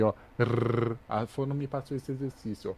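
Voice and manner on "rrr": Rrr as a long trilled R drill; rolled R practice. Shown as a demonstration. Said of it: "Eu tô aprendendo a falar o R".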